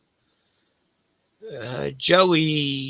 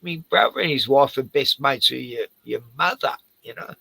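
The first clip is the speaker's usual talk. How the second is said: mock indignant comment; 5 semitones higher than usual. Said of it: "I'm gonna s-, say that in his comments".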